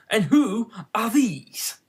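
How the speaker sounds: slow breathy whisper; a hushed, unvoiced question. A narrator's reading. Queen asks about gardeners.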